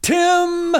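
high, held cry chopped mid-word; cut-off mock yell. Host acts out David crushed mid-shout, mock yell cut off. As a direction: start a cartoon holler and cut it short. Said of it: "all he gets out is".

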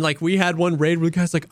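usual speaking voice

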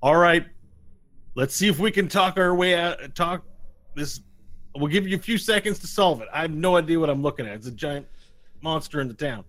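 grudging lawman hollering terms; sheriff voice. Acted. Sheriff backing up and granting time, loud. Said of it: "he says".

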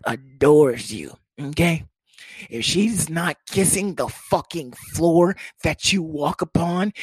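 slow, emphatic orders to himself; hype-up pep talk. Retold or imitated. Man psyching himself up to meet girlfriend's mama, slow stern pep talk. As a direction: drill it in word by word, leaning on key words. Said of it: "second minute hype up, like, inside my brain".

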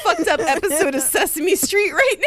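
high, laughing puppet-like voice; Sesame Street voice. Acted. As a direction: talk like a kids' TV puppet. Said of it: "We sound like we're on Sesame Street".

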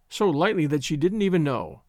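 ordinary delivery, nothing marked

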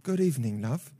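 lightly put-on posh British voice; posh British accent. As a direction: attempt an upper-class British greeting. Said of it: "posh British?".

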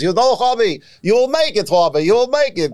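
high-pitched imitation of an old German Jewish man; German Jewish accent. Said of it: "So we spoke with a German Jewish accent".

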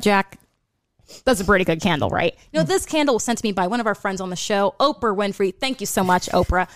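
Graham impression. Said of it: "I will do Graham first".

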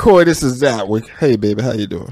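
low crooning intro; smooth pickup line. Pretend. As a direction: deepen it like a ladies' man. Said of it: "That's how you talk to your women?".

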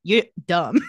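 loud barked put-down in an odd voice; mock shouted insult. Silas turning to Vicky, mock shout. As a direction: yell it like a petty villain.

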